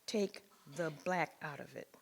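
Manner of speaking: a touch of a sharp exclamation, stress on take; exclaimed. Retold or imitated. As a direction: punch "Take" as a mild mock exclaim. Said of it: "he exclaimed".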